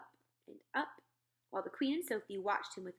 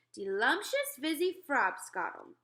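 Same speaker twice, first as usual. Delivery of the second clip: slow, louder, relishing each word; giant's voice; 5 semitones higher, 5 dB louder than usual. Acted. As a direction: savour the name. Giant explaining his drink.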